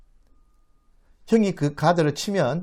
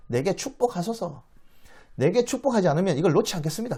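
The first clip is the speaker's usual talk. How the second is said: higher-pitched, determined entreaty; insistent plea; 4 semitones higher than usual. Acted. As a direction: plead without letting go. Jacob clings, demanding a blessing.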